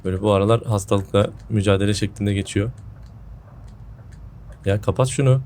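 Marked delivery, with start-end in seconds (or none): 0.0-2.7 sore-throated, under the weather; sick voice. Real, not acted. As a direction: speak like you're coming down with a cold. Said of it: "Kusura bakmayın hani sesim falan garip geliyorsa".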